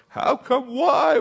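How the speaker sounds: high shouted why; crying out. Acted. Joshua on his face shouting his why at God. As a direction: shout the question up at heaven. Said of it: "And Joshua said".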